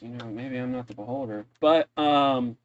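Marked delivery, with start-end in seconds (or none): 0.0-1.5 soft, lower aside in character; voiced stage whisper. Barkeep confides to the travelers over the poster, hushed. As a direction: confide it softly, barely a whisper. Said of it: "and whispers and goes".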